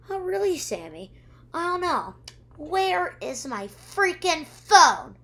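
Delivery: high-pitched, building to a loud slow demand; mock angry confrontation. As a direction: imitate an exasperated accuser, punching the last words. Retold quarrel over missing phone.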